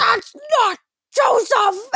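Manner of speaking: put-on high, slow, indignant child's protest; be a four-year-old calling out the fake; little kid shouting. Little brother calling out the swing actor, high child's protest. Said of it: "stands up and points and goes".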